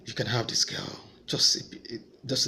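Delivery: hushed, coaxing devil's voice; tempting devil voice. Retold or imitated. The devil pushing him toward the girl, hushed coaxing. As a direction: breathe it like a tempter, partly whispered. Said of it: "the devil was just pushing me".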